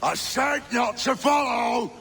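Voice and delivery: high yell; shouted warning. Acted. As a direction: shout it after them.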